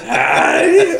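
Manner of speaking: very high, loud squeaked greeting; quick falsetto demonstration, half-laughing; high-pitched cartoon attempt; Mister Hanky. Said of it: "with the accent".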